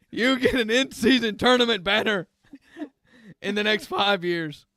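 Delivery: lightly voiced mall Santa, a bit scratchy. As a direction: play a grumpy smoker Santa, only slightly put on. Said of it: "I don't know what this accent is that Santa is using".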